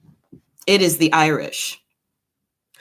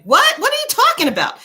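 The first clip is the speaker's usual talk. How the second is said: shocked disbelief; 3 dB louder, faster than usual. Retold or imitated. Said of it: "'cause I was just like".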